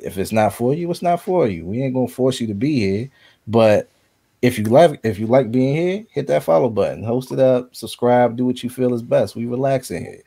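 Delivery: laid-back streamer hype voice; cool streamer talking to chat; Twitch streamer voice. Acted. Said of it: "is that your Twitch voice that you just used".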